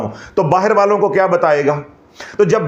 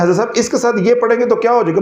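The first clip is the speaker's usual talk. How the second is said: eager questioner; 5 semitones higher, much faster than usual. Retold or imitated. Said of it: "कहते हैं".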